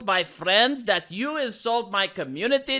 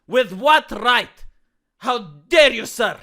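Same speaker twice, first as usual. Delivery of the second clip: mock outrage; 5 dB louder than usual.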